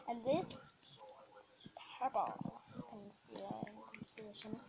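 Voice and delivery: soft unvoiced whisper. Real, not acted. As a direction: whisper it close to the mic. Whispering while filming slime.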